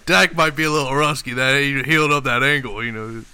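loud, hyped Dallas fan bravado; Cowboys fan voice. Pretend. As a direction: play the cocky Cowboys fan. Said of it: "I'm talking like a Cowboy now".

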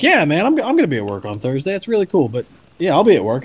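a fan trying to stay calm on the phone; barely hidden excitement. Retold or imitated. Fan answering his favourite quarterback's call, giddy and rushed. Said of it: "like, screaming".

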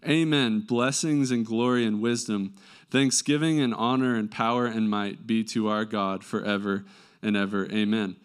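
stuffy nose from a cold; nasal voice. Real, not acted. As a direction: read with a blocked, nasal voice. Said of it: "if I sound nasally".

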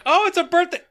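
very high-pitched imitation of an excited guest; mock party excitement. Imitating friends arriving at a birthday party, mock excited. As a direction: squeal it in mock delight through laughter.

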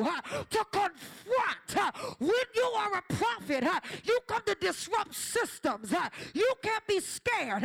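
rhythmic preacher cadence, each line pushed; fiery preaching. Acted. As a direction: preach it hard to the congregation. Preaching at full force.

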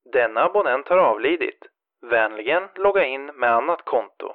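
quick, toneless recorded voice; fast robotic announcement; automated message. Acted. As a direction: read it like a phone system.

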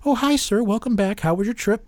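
lightly voiced cheerful nurse greeting; bright hello to a waking patient, high and light; sweet nurse. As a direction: chirp it like a friendly nurse. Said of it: "the nurses".

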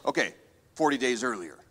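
low, soft movie-trailer voice; a hint of a film narrator's caption. Preacher mimicking a movie flashback caption, lightly low. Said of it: "when you're watching a movie".

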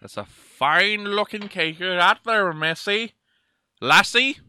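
drawn-out, put-on Irish brogue; mock Irish accent. Man asks lassie for cake in mock Irish. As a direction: tease in a hammed-up Irish lilt. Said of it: "You know they say lassie".

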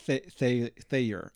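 halting attempt at THAY-er; struggling two-syllable Thayer. Shown as a demonstration. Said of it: "it's hard for me to even get two syllables".

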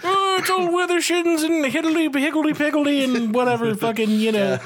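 laughing mock British accent that trails off. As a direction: play a silly twee Englishman. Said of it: "just trails off into American".

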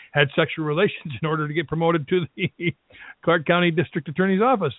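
stifled giggles through the words; holding back laughter mid-sentence; trying not to laugh. Real, not acted. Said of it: "sorry, I'm trying not to laugh about this".

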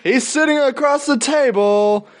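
mock arena announcer, drawn out; sportscaster voice. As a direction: call it like a PA announcer. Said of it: "like a sportscaster".

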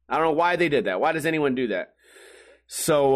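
ordinary talk

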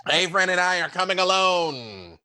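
calling out. Acted. Adventurer announcing they come alone, lightly called out. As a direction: sing it out ahead of you.

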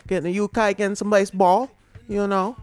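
a hammed-up, clumsy British accent; bad British accent. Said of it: "that's a horrible accent".

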